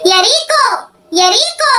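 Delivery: mother shouting for her daughter; calling out. Acted. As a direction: call her name from another room.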